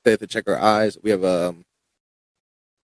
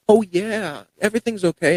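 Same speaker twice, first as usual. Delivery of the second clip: high, sing-song fake cheer, much higher pitch; fake reassurance; 10 semitones higher than usual. Nurse covering bad news with a fake cheery okay, mock high voice. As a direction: brush it off with a hollow, too-bright okay. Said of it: "the fakest".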